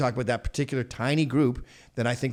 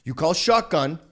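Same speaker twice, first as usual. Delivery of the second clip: mock lecture; 4 dB louder than usual. Lecturing Elliot Page imagined.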